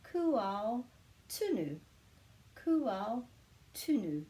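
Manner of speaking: "Ku ao tunu" in two parts, pause before "tunu"; model pronunciation. Shown as a demonstration. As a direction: demonstrate "ku ao", then "tunu" falling. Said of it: "that's the pronunciation of ku ao".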